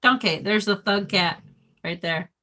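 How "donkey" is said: lightly put-on British accent; a touch of pretend British. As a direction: say it with playful mock British. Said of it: "in a British accent".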